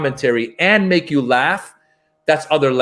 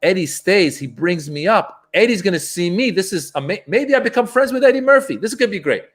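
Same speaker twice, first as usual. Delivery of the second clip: excitedly retelling a hopeful daydream, rising higher; recounting giddy anticipation; excited inner thought; 4 semitones higher than usual. Retold or imitated. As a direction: build to a higher-pitched, eager imagined hope. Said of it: "I'm thinking to myself".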